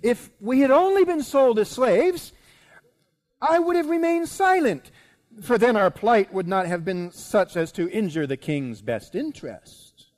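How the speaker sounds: high, loud declaration easing toward the end; announcing. Acted. Queen continuing her appeal to the king, high and declamatory. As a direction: declare it boldly, then come down gradually. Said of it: "the queen announces".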